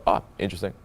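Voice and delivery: understated "oh", then falling "interesting"; quietly register mild interest; mildly intrigued. Shown as a demonstration. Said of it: "it's how I'm saying it".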